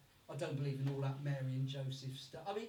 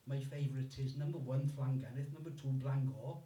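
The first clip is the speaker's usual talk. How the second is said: lower, measured Welsh newsreader; deliberate Welsh-accented pronouncement; Hugh Edwards; 3 semitones lower than usual. Acted. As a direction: list it like a solemn Welsh newsreader. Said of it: "Hugh Edwards, the newsreader, he jumped in".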